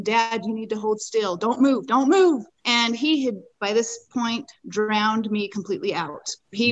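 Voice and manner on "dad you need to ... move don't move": urgent command building to a raised cry; retold yelling. Rider to father-in-law fallen in the canal, retold yelling. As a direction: re-enact ordering someone to freeze, rising on the repeat. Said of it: "I just was yelling to him".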